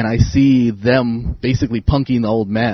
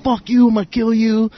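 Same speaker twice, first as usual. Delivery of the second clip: high mocking threat; hammed-up jailhouse threat; 9 semitones higher than usual. Inmates threatening, retold.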